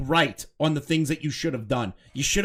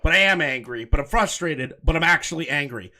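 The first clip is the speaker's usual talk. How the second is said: mocking quote; 3 semitones higher, 5 dB louder than usual. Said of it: "so you're saying".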